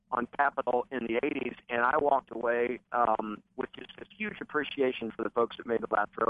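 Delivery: crackly, fuzzy phone line audio; distorted phone line. Real, not acted. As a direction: speak over a bad, distorted phone connection. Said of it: "we're having a little bit of distortion in your, in your call".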